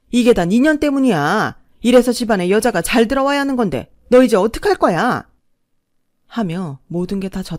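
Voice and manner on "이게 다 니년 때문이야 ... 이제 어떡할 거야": angry blaming. Retold or imitated. Mother-in-law blames her, quoted.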